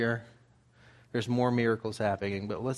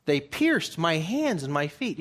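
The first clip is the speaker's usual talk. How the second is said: raised, solemn psalm reading; preacher lifting his voice for the scripture; 5 semitones higher than usual. Acted. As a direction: read the psalm out to the congregation. Reads psalm aloud in sermon.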